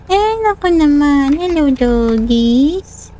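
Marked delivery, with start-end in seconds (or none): 1.3-3.1 slow, lower, gentle coaxing; cooing to dogs. Acted. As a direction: soothe the dogs slowly. (malambing at mabagal na pagbati sa mga aso)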